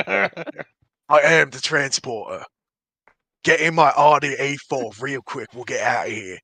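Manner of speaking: rough attempt at a British accent; hammed-up London action-hero accent; Jason Statham. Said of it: "he's Jason Statham".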